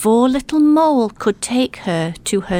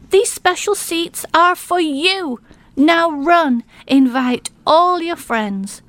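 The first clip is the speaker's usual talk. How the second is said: excited; 5 semitones higher than usual. Acted. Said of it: "he shouted".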